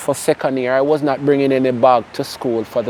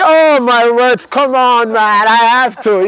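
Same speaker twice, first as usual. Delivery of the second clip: much higher and louder, slowed "yo, my words"; excited exclaiming; 6 semitones higher, 3 dB louder than usual. Real, not acted. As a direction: burst out in delighted disbelief. Excited banter about girlfriend.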